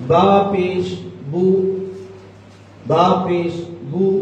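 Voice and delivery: बू with rounded lips that are not fully closed; correct pesh demo. Shown as a demonstration. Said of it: "देखिए". (होंठ गोल करके बू)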